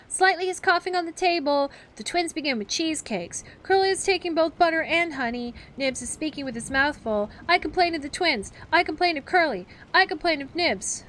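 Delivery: put-on loud, high tattling children; a pack of boys telling tales loudly; hateful telling. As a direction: shout each complaint over the others. Children tattling all at once.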